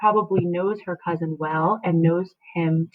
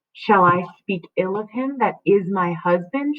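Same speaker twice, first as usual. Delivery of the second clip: Juliet's retort. Acted. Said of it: "she says".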